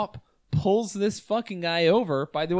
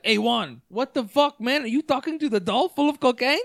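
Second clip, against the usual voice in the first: high, disbelieving dealer yelling at a buddy; incredulous dealer voice; 7 semitones higher than usual. Retold or imitated. Dealer gaping at his buddy's doll talk, high and incredulous. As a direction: raise it up, baffled by your friend. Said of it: "some drug dealer guy's like".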